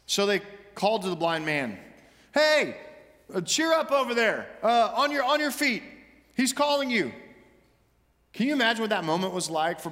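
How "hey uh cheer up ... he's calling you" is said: calling out. Acted. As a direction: shout to him over the noise. Crowd calls to blind man.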